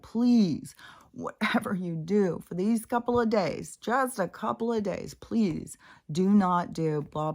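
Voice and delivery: urgent pleading, with a whispered middle. Retold or imitated. Narrator begging her drunk partner to behave, half-whispered plea. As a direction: beg him hard, then drop to a whisper on the middle. Begging him before the trip.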